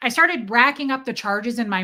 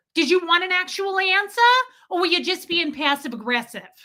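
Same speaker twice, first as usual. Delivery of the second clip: mock pissed-off, cutting, pitched-up angry tone; 8 semitones higher than usual. Retelling what he said back to a passive-aggressive dude, retelling an angry retort. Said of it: "And I was so pissed".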